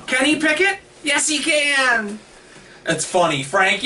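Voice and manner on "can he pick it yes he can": very high chant, slow stretched answer; Bob the Builder. Acted. Co-host selling his pun to his partner, high drawn-out cartoon catchphrase. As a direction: push the catchphrase up high and draw it out. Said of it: "like Bob the Builder".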